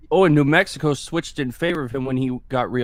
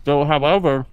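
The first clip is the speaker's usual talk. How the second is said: mouth full. Real, not acted. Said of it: "Stop talking with your damn mouth full".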